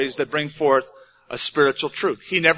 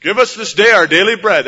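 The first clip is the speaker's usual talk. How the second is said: louder, plain and firm; plain and direct; 2 semitones higher, 7 dB louder than usual. Shown as a demonstration. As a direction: say it simply and squarely, no frills. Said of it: "Jesus never talked like that. He said".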